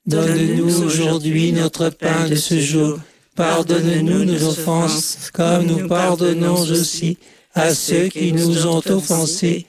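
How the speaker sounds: level, monotone group recitation; choral prayer response. Real, not acted. Congregation answering the leader in the Lord's Prayer, monotone prayer. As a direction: recite evenly in unison, barely moving the pitch.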